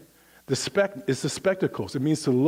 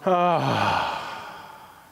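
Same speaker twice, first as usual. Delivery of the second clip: saying ahh. Shown as a demonstration. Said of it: "make an ah sound".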